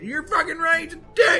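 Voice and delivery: put-on very high, whiny drunk voice; hammed-up drunken woman egged on to accuse; drunk accusing. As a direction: squeal it as a tipsy, aggrieved witness. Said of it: "gave her a bunch of booze".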